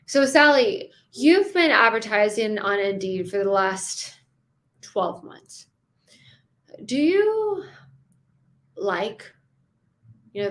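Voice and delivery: unhurried, pausing before the question; chill, let the pause sit; calm with pauses. Shown as a demonstration. Coach asks Sally about Indeed results, calmly pausing. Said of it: "There's a pause there. I'm chill".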